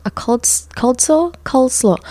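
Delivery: incredulous echo of the phrase; mock disbelief. Real, not acted. Repeating the embarrassing word.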